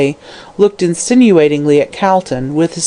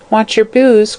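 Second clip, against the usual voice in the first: put-on child's cry; 6 semitones higher than usual. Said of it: "cried the child with an elfish laugh".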